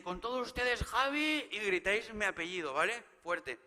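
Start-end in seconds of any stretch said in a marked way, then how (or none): 0.0-1.5 announcer intro. Retold or imitated. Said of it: "Y diré".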